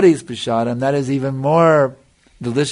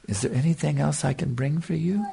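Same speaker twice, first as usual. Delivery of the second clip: a touch softer, humbly imitating the offer; humble, sweet voice; 5 dB quieter than usual. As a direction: retell it sweetly, as a humble servant would. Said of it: "In a very sweet, affectionate way".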